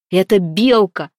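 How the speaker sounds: loud triumphant shout; young man shouting the answer. A narrator's reading. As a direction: blurt it out loudly before anyone else. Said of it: "крикнул Гвидон".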